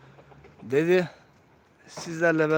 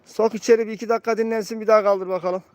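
calling out; 4 semitones higher than usual. Real, not acted. Calling out to the handler.

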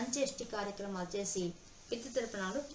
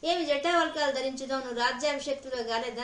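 surprised questioning; 3 semitones higher, 5 dB louder than usual. Acted. Sage questions Bharata's bark clothes.

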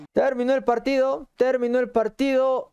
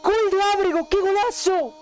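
breakneck goal commentary; 9 semitones higher than usual. Real, not acted. Bolivia scores against Brazil.

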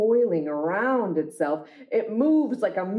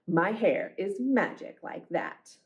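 storybook refrain. A narrator's reading. Closing refrain of the book.

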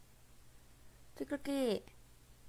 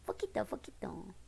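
whispering. Real, not acted. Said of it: "te sale la voz kawaii".

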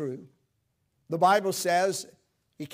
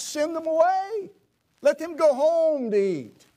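much higher, louder dismissive quote; disciples' dismissal; 12 semitones higher, 8 dB louder than usual. Acted. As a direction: toss it off like the impatient disciples. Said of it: "What was their response?".

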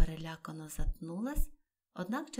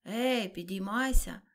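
louder, slow commanding call; 2 semitones higher, 8 dB louder, slower than usual. A narrator's reading. The turtle orders the Gryphon to get up, commanding. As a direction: order him up sharply. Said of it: "наказала Грифонові черепаха".

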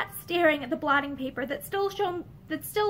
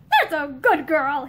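slow, laughing condescension; patronising laugh; 5 dB louder, slower than usual. Acted. Husband laughing down at his obedient wife, slow and smug. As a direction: pat her on the head with your voice.

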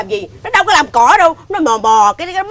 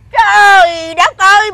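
angry slow exclaim; 4 semitones higher, much slower than usual. Acted. Wife exclaims in anger.

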